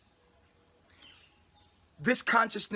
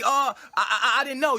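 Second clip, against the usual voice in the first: mock excuse; 2 semitones higher, 4 dB louder than usual. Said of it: "It won't be".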